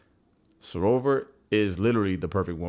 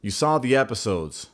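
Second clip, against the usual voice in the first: pleading; 3 semitones higher, 5 dB louder than usual. Retold or imitated.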